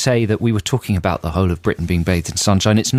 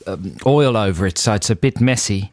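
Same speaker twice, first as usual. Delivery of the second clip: mock Australian accent. Improvised Australian mates routine.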